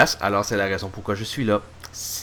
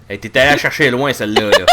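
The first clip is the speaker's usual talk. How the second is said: laughing; 6 dB louder than usual. Real, not acted. Laughing at a pun.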